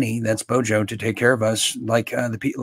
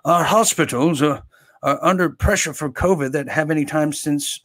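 lightly mocked British accent; half-hearted British impersonation; Boris Johnson accent; 2 semitones higher than usual. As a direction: put on a rough British politician's accent. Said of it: "is that my Boris Johnson accent".

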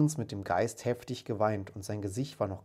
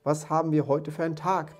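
raised, loud eager question; calling out; 5 semitones higher, 5 dB louder than usual. A narrator's reading. Scrooge calls to a boy passing his window, eagerly. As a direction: call down eagerly to someone below. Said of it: "rief Scrooge einem Jungen".

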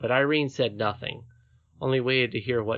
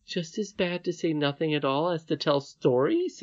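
indignant exclamation; 5 semitones higher than usual. Acted. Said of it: "exclaimed the princess".

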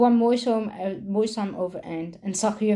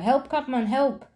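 kinderen gillen om hulp; 6 semitones higher than usual. Acted. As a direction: shout it urgently at the window. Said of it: "te gillen". (hoog, iets luider hulpgeroep)

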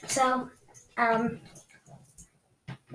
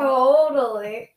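slow, drawn-out sarcastic totally; slower than usual. Real, not acted. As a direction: stretch it out in disbelief. Teasing about the crush.

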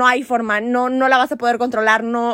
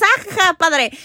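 light fake ha-ha, higher pitched; mock laughing; 4 semitones higher than usual. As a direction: act out laughing along with a friend. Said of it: "te estás riendo y dices".

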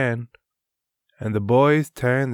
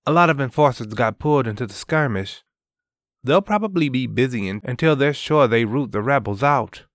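put-on young man voice; 3 semitones higher, much faster than usual. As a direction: brush it off like a soldier who knows. Danson voiced in story.

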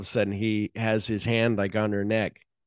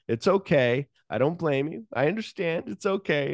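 mock soothing; 7 semitones higher than usual. Woman calming the man who came to kill her, rising higher, soothing. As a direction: coax him like a nervous man. Jackie soothing Ordell in retold scene.

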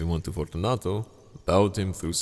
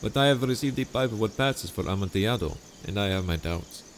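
higher, sweetly scheming host voice; honeyed charm pitched up high; Montresor, falsely friendly; 6 semitones higher than usual. Acted. Narrator voices Montresor's dialogue.

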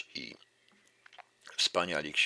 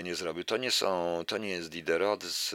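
ordinary delivery

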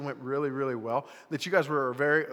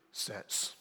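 mock hushed whisper; Josh; 11 dB quieter than usual. Preacher imitating how it was said earlier, whispered. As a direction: whisper it as if it mustn't be said. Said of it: "that's how he said it earlier".

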